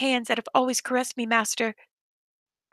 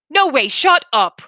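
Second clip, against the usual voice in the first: louder disbelief; incredulous; 3 semitones higher, 7 dB louder than usual. Acted. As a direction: refuse to believe it. Disbelief at living dolls.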